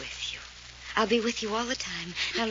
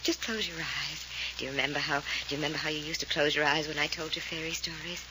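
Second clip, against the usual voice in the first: lulling; 3 semitones lower, 3 dB quieter than usual. Acted. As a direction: coax her like telling a fairy story. Fay lulls Cherry like bedtime.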